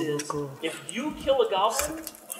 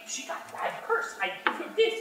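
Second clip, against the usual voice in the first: higher, breathless, making excuses; goblin husband; 12 semitones higher, 4 dB quieter, faster than usual. Acted. Husband explains to wife he gave it away, pleading. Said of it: "my wife comes out".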